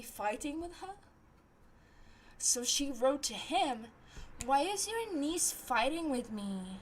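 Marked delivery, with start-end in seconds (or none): 4.4-6.8 lightly voiced whiny-girl imitation; a hint of mimicry; imitating the girl. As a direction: quote her in a mild mocking put-on voice. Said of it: "This is how she sounds like".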